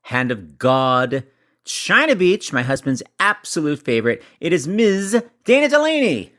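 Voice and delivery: drawn-out announcer build-up, swooping up to the name; show host introduction. Acted. Host introducing the Emmy-winning guest, drawn-out announcer style. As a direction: stretch each credit like a grand announcer.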